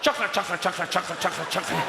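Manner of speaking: lightly voiced, monotonous stream of cues; choreographer calling cues. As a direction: repeat the cue like a stuck choreographer. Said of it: "choreographer at the side of the stage shouting it out".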